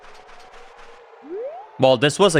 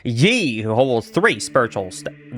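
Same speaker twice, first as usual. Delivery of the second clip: slow, lower, a hint of Southern drawl; attempted Southern accent; 5 semitones lower than usual. Player trying the inscription, attempted Southern accent. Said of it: "read this with a Southern accent".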